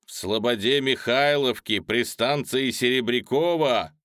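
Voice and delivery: loud, fired-up orator; animated. A narrator's reading. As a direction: rouse the crowd with spirit. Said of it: "одушевлённо говорил оратор".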